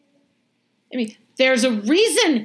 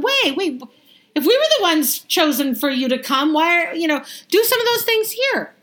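entitled complaint; 6 semitones higher than usual. Retold or imitated. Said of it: "Immediately they're going".

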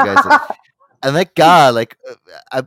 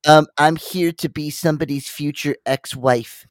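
mock seductive caption voice; 5 semitones higher, 4 dB louder than usual. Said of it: "And she's like".

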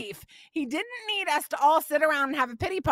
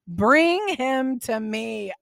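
slow, deliberate tough-guy command; gangster Jesus; much slower than usual. Acted. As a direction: lay it down slow like a tough boss. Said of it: "I love gangster Jesus".

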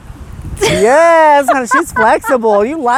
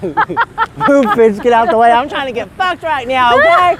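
sassy shove. Pretend. Bossy cow shoving through.

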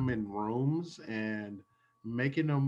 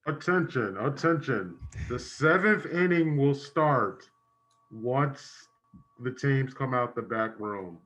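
announcer; 2 semitones higher, 4 dB louder than usual. Acted. Stadium announcement.

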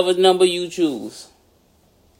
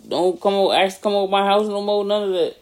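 lightly put-on rapper voice, mock hurt; 3 semitones higher than usual. Friend cutting off a card partner, mock-hurt rapper impression. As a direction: sulk like a wounded rapper, slightly raised pitch. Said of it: "You my Dirk voice".

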